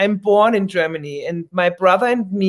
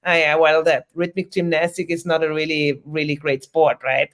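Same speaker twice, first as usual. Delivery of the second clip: imitating Austrians; 5 semitones lower than usual. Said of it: "And the Austrians say".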